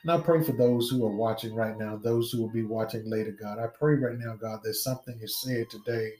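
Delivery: steady fervent prayer cadence. Real, not acted. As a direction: pray aloud over the congregation. Leads an opening prayer.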